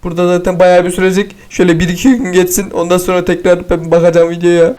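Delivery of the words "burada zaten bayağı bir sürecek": normal talking voice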